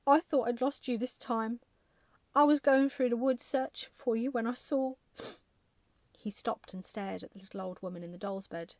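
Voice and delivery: put-on loud, high, flustered old man; rattled husband talking fast and high; relieved, bewildered husband. A narrator's reading. Husband's voice in story.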